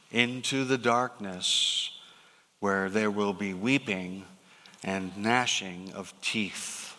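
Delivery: a hint of a severe master passing judgment; stern master. Master rebukes the lazy servant.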